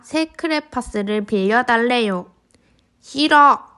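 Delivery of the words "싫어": loud high no; sulky refusal. Acted. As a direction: bark a stubborn no. Sister refuses crayons.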